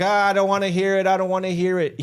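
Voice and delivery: high, quick imitation of someone blocking you out; mocking refusal to listen. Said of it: "He's going, like, la, la, la".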